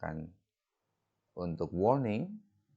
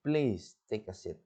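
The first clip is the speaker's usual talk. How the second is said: polite request; 2 semitones higher than usual. Shown as a demonstration. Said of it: "kalimat request".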